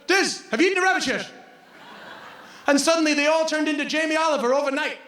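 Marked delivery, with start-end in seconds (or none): 0.1-1.3 teasing traveler. Retold or imitated. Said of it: "every traveler".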